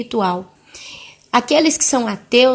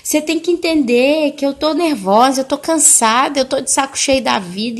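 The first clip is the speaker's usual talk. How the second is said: mildly whining, higher-pitched lament; aggrieved complaint; 4 semitones higher than usual. Retold or imitated. Grandmother telling her daughter how she suffers, aggrieved retold complaint. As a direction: plead to be understood, lightly acted. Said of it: "começou a falar assim".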